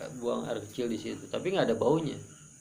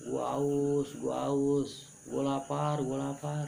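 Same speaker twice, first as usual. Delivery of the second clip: lightly acted plea of the thirsty and hungry dying; mock hungry wailing; 2 semitones higher, much slower than usual. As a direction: mildly moan it out, imitating someone desperate for food and drink. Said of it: "masih teriak lapar aja". (pura-pura merintih haus dan lapar)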